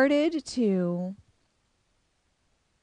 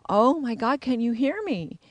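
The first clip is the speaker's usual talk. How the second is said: put-on little girl's voice; 5 semitones higher than usual. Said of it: "I heard this little girl's voice say".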